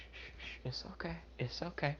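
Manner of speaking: soft, near-whispered comforting; soothing hush. Acted. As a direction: hush a crying child gently. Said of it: "trying to calm it down".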